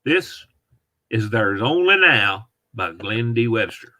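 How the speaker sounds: showman's put-on Southern accent. Shown as a demonstration. Announcing a book to an audience, in a Southern accent. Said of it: "do a Southern accent on my book".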